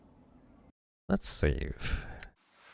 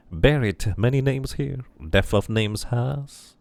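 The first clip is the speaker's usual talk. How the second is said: sing-song dustman chanting his creed; 3 semitones higher than usual. Acted. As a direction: intone it like a gravekeeper's rhyme. Dustman NPC speaks.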